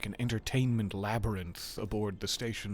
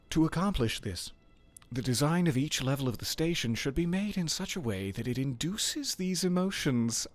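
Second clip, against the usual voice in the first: Jeffrey Hammer voice; 4 semitones higher than usual. Acted. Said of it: "Let me get my Jeffrey Hammer".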